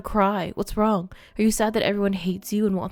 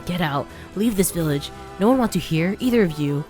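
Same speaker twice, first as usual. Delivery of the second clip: louder growing snarl; hostile order; 4 dB louder than usual. Acted. Demo ordering Kaine and grandmother out, angry. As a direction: drive them out of the village. Bully spitting threat.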